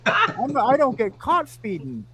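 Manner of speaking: loud, high-pitched cocky comeback; emphatic boast. Retold or imitated. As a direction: crow it loudly, acting out the cop. Retold cop boasting back.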